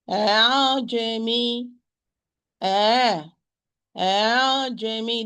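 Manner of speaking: "أعجمي" with the hamza softened toward a long alif; eased hamza (tasheel). Shown as a demonstration. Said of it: "This is the tasheel or easiness".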